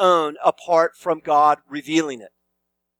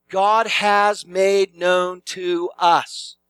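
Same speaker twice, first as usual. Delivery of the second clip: GOD HAS MADE KNOWN said slowly, word by word; emphatic; much slower than usual. Shown as a demonstration. Preacher quoting verse nine to the congregation, slow and emphatic. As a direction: spell out each word, slow and deliberate. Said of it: "It's very emphatic, very clear".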